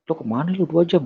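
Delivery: high-pitched retold disbelief; incredulous questioning. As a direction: act out a cousin's astonished question. Startled cousin questioning him, retold. (menirukan sepupu bertanya heran dengan nada tinggi)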